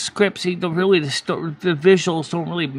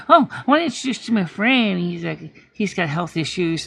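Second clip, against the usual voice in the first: gushing. Retold or imitated. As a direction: rattle it off brightly. Friend retold gushing introduction.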